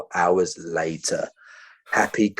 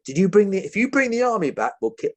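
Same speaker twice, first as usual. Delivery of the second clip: threatening guard; 10 semitones higher, faster than usual. Retold or imitated. Guard threatening the hostages about the army, high and menacing. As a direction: warn them like a jumpy gunman.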